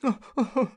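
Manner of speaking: very high, loud wailing sob; a hammed-up wail of tears; comic crier's howl; bursting into tears. A narrator's reading. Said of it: "he simply burst into tears".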